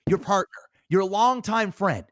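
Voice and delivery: chummy interviewer building excitement; mock interviewer piling on details, rising in pitch; Nardwuar impression. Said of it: "And that's how he talks".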